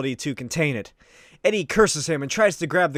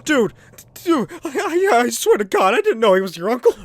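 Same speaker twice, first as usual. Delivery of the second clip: much higher, louder, fast begging; frantic high-pitched mugger; panicked pleading; 7 semitones higher, 6 dB louder than usual. Acted. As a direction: squeal out a terrified excuse. Mugger begs for his life.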